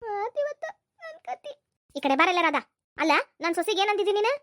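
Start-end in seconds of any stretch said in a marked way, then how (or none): 0.0-1.6 tiny, high, slow dread; frightened aside. Acted. Culprit dreading today's scolding, frightened aside. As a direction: squeak it softly, drawn out in fear.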